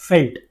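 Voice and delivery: felt said with a clear f and a hard t ending; correct pronunciation. Shown as a demonstration. Teacher giving students the right form, felt with f. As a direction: felt spoken as f-e-l-t, the Dutch way. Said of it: "this is known as".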